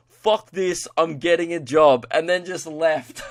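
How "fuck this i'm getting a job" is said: acted frustration. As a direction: imitate a fed-up man storming out. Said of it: "he got so frustrated".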